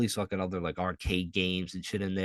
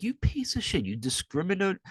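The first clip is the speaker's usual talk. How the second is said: mock outraged; 10 semitones higher than usual. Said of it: "I'm like".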